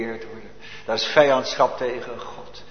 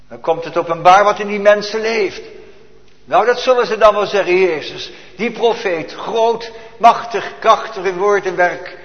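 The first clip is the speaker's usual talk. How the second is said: higher, louder, building praise; fervent preaching; 6 semitones higher, 8 dB louder than usual. Acted. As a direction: proclaim Jezus' greatness, loud and high. Preacher rises to full force. (luid en verheven gepreekt)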